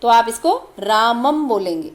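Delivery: रामम with a closing m sound; anusvara reading. Shown as a demonstration. Teacher shows राम read with anusvara as रामम. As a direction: end रामम on a clear humming m. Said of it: "इस पर अगर आप अनुस्वार लगा देंगे".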